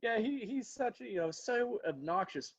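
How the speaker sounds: hammed-up polite Southern put-down; mock politeness. Southerner politely insulting someone behind kind words, mock polite. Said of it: "He's so polite".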